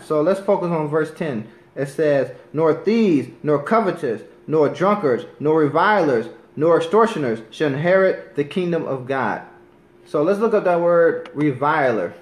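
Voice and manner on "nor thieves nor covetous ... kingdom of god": firm, emphatic Bible reading; preacher reading a list of sinners from scripture. Acted. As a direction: proclaim each line of the list. Rereads verse ten.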